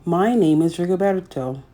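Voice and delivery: gentle, measured picture-book narration; reading to children. A narrator's reading. Storyteller reading a picture book to young children, gently.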